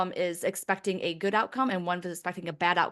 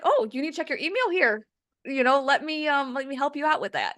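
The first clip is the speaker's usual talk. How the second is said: helpful spirit voice; 7 semitones higher than usual. Pretend. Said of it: "maybe they were like".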